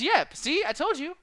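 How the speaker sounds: smug mock gloat. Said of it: "then he says".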